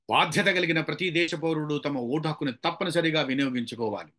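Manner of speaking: modulated, deliberate public-message reading; trained voice modulation. Shown as a demonstration. Trained speaker urging citizens to vote, modulated delivery. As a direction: read as a trained speaker, shaping each phrase. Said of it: "voice modulation నేర్చుకునేవాడు".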